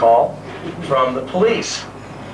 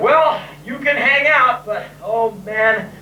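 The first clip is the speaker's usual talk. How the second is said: raised, lightly put-on dull-guy voice; mock boring guy; 3 semitones higher than usual. Playing the dullest man on earth to a girl, put-on politeness. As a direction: act lamely polite to get rid of her. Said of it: "making myself look like the most boringest man on earth".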